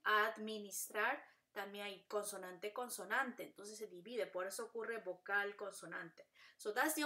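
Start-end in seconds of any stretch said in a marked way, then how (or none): 0.0-1.2 "administrar" slowly, beat by beat; "administrar" divided between d and m; split into syllables. Shown as a demonstration. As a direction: break "administrar" as ad, mi, nis, trar. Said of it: "Ven como D M".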